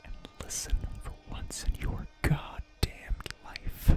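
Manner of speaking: a fierce, hissed order; commanding whisper. Acted. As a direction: whisper it like a threat. Villain commanding the hero.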